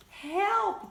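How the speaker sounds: high, very loud shout for help. A narrator's reading. Tom trapped in the fridge, full shout for help. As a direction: yell for rescue at full force. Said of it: "they shouted together".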